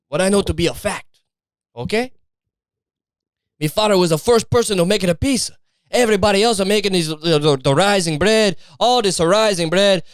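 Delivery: a light put-on Italian accent, defensive; lightly voiced Italian insisting it's fact. Italian guy defending his pizza story to a skeptic, light Italian accent. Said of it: "Fucking fake Italian history".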